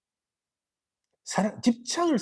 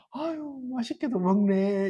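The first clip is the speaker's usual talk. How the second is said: slow, gentle doting coo; soft gentle praise; 4 semitones higher than usual. Shown as a demonstration. Soft mother praising a child who eats well, slow and gentle. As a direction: praise the child softly, no edge. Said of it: "이렇게 부드럽게".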